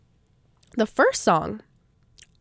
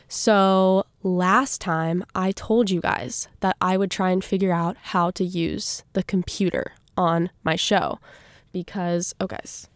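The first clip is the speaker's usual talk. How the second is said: chewing gum. Real, not acted. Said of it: "I have a piece of gum in my mouth".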